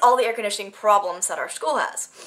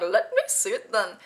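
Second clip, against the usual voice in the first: lightly put-on Indian accent; 4 dB quieter than usual. Actress recalling her accidental line delivery, Indian accent. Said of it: "an Indian accent".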